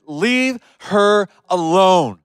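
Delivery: slow, firm leave her alone; a touch of stern Jesus; strong command. Retold or imitated. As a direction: lay down the law, gently firm. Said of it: "He was very strong".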